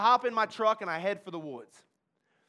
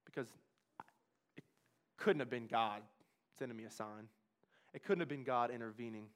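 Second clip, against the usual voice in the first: low, soft hushed narration; quiet, tense storytelling; hushed telling; 8 semitones lower, 10 dB quieter than usual. Acted. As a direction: draw them in, barely above a breath. Hushed retelling of the suicide moment.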